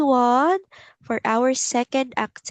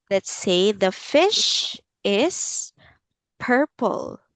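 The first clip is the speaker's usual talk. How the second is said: whispering. Acted. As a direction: whisper the sentence slowly. Teacher reads sentence to child.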